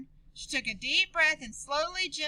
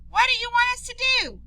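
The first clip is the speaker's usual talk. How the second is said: put-on eager child voice; 10 semitones higher, 5 dB louder, faster than usual. Cousin asks, story voice.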